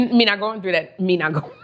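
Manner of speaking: lightly put-on Jamaican-style accent; a hint of mock Jamaican-Trinidadian patois; mock mixed Caribbean accent. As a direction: slip briefly back into a playful Caribbean lilt. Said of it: "part Jamaican".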